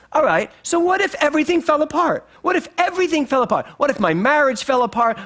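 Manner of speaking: high-pitched string of worried what-ifs; acted-out spiralling worry; catastrophizing. Acting out her worst-case worrying.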